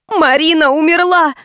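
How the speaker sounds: high panicked announcement; hysterical. A narrator's reading. Anzhela telling the salon, panicked high cry. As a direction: blurt it in hysterics. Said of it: "сказала Анжела и опять завизжала".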